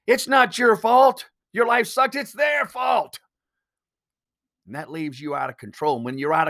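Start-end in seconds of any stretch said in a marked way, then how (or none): 0.1-3.2 higher, slow, mock-indignant pundit voice; mock pundit rant. Host mocks pundits telling viewers who to blame: slow, higher, hammed-up outrage. Mocking pundits stoking anger.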